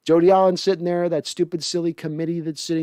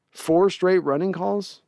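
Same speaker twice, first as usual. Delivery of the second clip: slow, disbelieving question rising on straight; incredulous repeat; 4 semitones higher, slower than usual. Real, not acted. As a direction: drag it out, as if you can't believe the call. Repeats the play call disbelieving.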